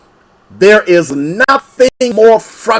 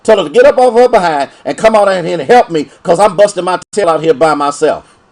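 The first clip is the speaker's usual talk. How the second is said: sassy Black Martha; faster than usual. Acted. Martha complaining to Jesus about her sister, fast sassy demand. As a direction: rattle it off like a fed-up sister. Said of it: "the Black Martha way of saying".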